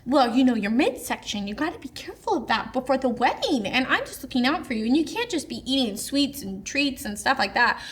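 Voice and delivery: lightly imitated condescending mother-in-law; mock fake concern. Mother-in-law warns bride before the wedding, mock concern. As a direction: lilt through it with a touch of false sweetness.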